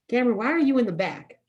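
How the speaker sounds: high, loud, quick mock call; dance mom. Dance mom questioning her dancer daughter, loud imitated demand. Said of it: "I was a dance mom".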